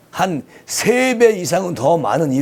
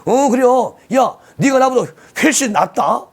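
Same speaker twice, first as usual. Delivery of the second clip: lively, higher-pitched Chungcheong accent; Chungcheong dialect; 5 semitones higher than usual. Shown as a demonstration. Host showing viewers how Chungcheong people talk, lively Chungcheong dialect. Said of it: "충청도에서는 이런 말을 해요".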